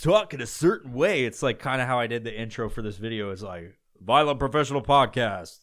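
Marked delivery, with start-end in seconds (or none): 4.0-5.6 a lightly put-on radio announcer read; fake radio voice. Podcaster mocking a radio DJ, lightly put-on announcer voice. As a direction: announce the show name like a DJ. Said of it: "you just do this fucking fake ass voice, radio voice".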